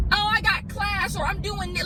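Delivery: carefree friends. Retold or imitated. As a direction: imitate happy, carefree friends. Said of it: "they seem so carefree and so happy".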